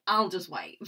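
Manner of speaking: light Australian accent impression. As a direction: Billie Kay's Australian lilt. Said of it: "you're trying to do an Australian accent there".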